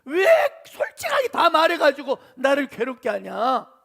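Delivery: loud, acted-out father's rebuke; retold parental telling-off with an emphatic start; scolding. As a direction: put the blame on your sons, loudly. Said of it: "이 자식들에게 떠넘기고 막 야단치고".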